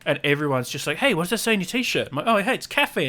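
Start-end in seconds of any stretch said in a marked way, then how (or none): 1.0-2.1 raised pitch, mimicking a casual question; imitated curious relatives. Retelling relatives' question about shirt. 2.3-3.1 pitched-up, mock-eager answer; re-enacted eager reply. Retelling own reply to family.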